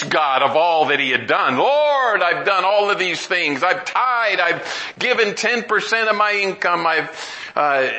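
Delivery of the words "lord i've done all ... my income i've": a hint of a boastful Pharisee, opening high on "Lord"; lightly mock his bragging to God; self-righteous Pharisee. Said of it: "that self-righteous Pharisee".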